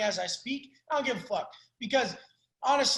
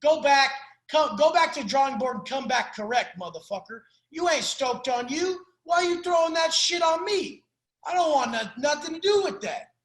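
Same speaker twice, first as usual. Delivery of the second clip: mock blunt callout; 2 semitones higher than usual. Calling a friend out on his excuses, a mock angry rant. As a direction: snap at them to come back correct. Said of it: "Be like".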